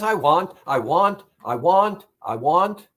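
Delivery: insistent, lightly acted craving; nagging inner voice. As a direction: repeat it like a craving that won't quit. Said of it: "And that voice says".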